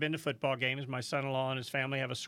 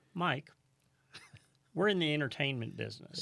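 real calm voice. Retold or imitated. Racetrack boss calmly explaining to a racer, sincere. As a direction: tell him calmly, looking right at him. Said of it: "with a real calm voice".

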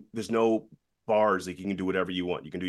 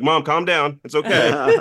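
retold urgent reassurance; 8 semitones higher, 7 dB louder, slower than usual. Retold calming of overwhelmed mom.

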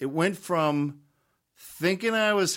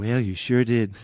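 lightly voiced folksy president; a hint of Reagan; Ronald Reagan; 2 semitones lower than usual. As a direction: slip briefly into a presidential impression. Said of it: "President Reagan again".

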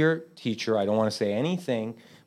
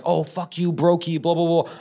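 tough love; 6 semitones higher than usual. Retold or imitated. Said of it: "I'm acting all tough love".

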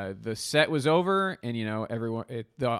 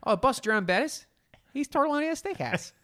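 high Pittsburgh accent; 13 semitones higher, faster than usual. Shown as a demonstration. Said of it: "I always go high with mine".

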